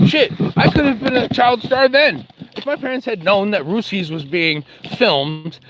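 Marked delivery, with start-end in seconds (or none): 0.1-2.3 gasped high realization; gasp, then a high whispered curse; sudden gasp. Real, not acted. Realizing he could have been a child star, gasped and high.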